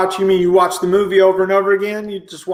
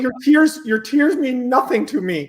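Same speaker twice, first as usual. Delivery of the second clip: arrogant celebrity; 4 semitones higher than usual. Acted. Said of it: "I'm Toby Maguire".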